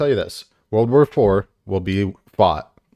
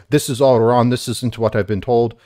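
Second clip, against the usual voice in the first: lightly imitated Russian accent, a bit insistent; 3 semitones higher than usual. Russian guy protesting at a shared screen, imitated Russian accent. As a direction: slip into a mild Russian accent. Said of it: "So much for not doing the accent".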